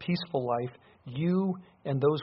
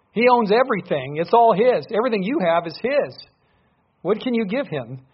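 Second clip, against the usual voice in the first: higher and louder, building to a peak; fervent preaching climb; rising preaching; 6 semitones higher, 8 dB louder than usual. Real, not acted. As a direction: lift the voice, press the point home. Preacher climaxes on God's ownership.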